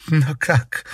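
high, sudden, astonished; surprised question. A narrator's reading. Countess to Derzhavin, astonished. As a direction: caught off guard. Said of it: "удивилась Шадурская".

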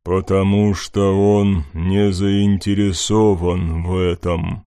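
slow booming god's rumble; thunderous rumbling voice. Acted. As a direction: rumble it like a dark god. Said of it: "пророкотал столь знакомый громоподобный голос".

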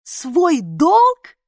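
put-on girl yelling his word back in anger; yelled. A narrator's reading. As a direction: yell it back at him. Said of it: "заорала я".

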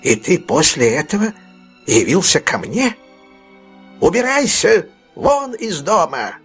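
put-on old fence raising his voice to drive him away; outraged old man. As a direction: throw him out in a shrill fury. Fagin turns him out.

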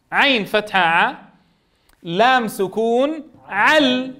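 slow, drawn-out syllable-by-syllable spelling. Shown as a demonstration. Teacher spelling slowly for the students. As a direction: spell each sound out slowly for the class. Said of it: "كيف عل يعني؟".

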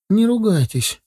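put-on high-pitched scared little boy; frightened squeak. A narrator's reading. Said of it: "пискнул сверху Саня испуганно". (испуганный детский писк)

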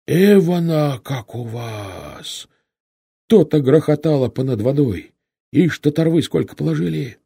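high, loud exclamations; astonished rider's shouts; loud amazement. A narrator's reading. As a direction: marvel aloud at the sight, calling out. Rider calls out, amazed at bodies.

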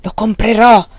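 loud, haughty exclamation; loud haughty declaration; proud exclamation. A narrator's reading. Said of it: "esclamò lui con voce altera".

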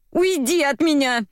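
high, restrained shriek; mild squeal. A narrator's reading. Dobronina repels Katya, squealing mildly. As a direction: squeal to drive her off. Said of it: "завизжала Добронина".

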